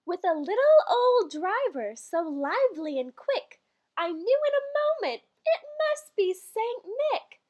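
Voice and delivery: slow, measured verse reading; poem recital. Acted. Reading the Christmas poem to listeners, measured recital. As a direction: lilt through the rhyme like a bedtime poem.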